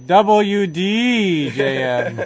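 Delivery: each letter slow and separate; slow enunciation. Shown as a demonstration. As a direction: spell out W D J M slowly. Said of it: "I will enunciate".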